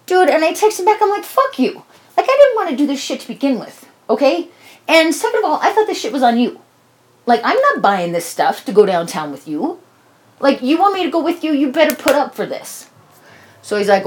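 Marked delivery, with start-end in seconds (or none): 1.2-12.9 pitched up, half-mock outburst; angry retort. Texting the friend who waited in the car, hammed-up angry reply. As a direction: tell him off, indignant and heated.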